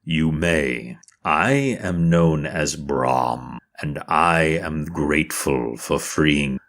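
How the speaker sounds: slow, measured voice for a solemn dragon; lightly voiced stately dragon; grateful dragon. Dragon thanking those who freed him, slow and solemn. Game master plays the dragon Brahm.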